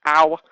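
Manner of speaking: sharp ow of pain; stubbed toe. Real, not acted. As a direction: yelp after hitting toe. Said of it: "so I just stubbed my toe".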